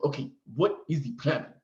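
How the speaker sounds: second take of the nurse's put-on Nigerian accent, just as light; mock Nigerian accent. Nigerian nurse asking the patient what is wrong, light mock accent. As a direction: repeat the nurse's question with a hint of Nigerian accent. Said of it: "she didn't talk like this. I'm just doing it for effect".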